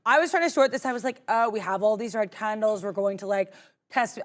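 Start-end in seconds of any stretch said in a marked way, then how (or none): 1.3-4.2 lightly put-on Valley Girl accent. Trader retelling her short trade, light Valley Girl voice. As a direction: slip into a mild Valley Girl lilt. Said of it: "I'm doing a Valley Girl voice".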